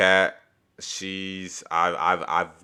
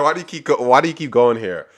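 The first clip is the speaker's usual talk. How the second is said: heated question; 5 semitones higher, 8 dB louder than usual. Retold or imitated. The speaker repeats heated question.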